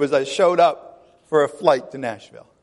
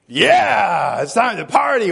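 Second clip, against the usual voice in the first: party shout; 3 semitones higher, slower than usual. Retold or imitated. Mock party cry.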